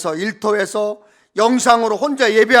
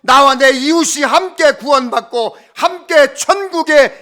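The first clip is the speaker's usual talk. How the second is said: slow fervent preaching; 4 semitones higher, 8 dB louder than usual. Acted. Closing exhortation, loud, slow.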